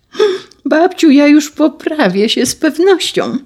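put-on high, eager little-girl plea; a small girl eagerly promising grandma. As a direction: promise earnestly like a small child.

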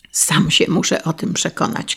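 usual speaking voice

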